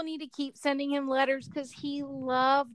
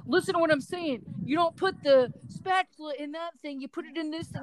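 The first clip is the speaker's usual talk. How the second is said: mimicking son's bossy tone; 6 semitones higher than usual. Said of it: "and then he'll be like".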